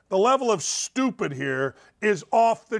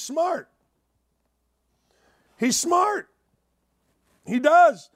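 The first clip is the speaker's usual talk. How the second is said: a jump way up high, mocking and silly; 10 semitones higher, 4 dB louder, slower than usual. Mocking a vain handsome guy in a high silly voice. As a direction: squeak it out like a vain pretty boy.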